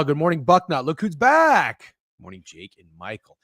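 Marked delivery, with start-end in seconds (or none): 0.0-1.9 slow drawn-out look who's back; teasing greeting. Acted. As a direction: stretch it out teasingly.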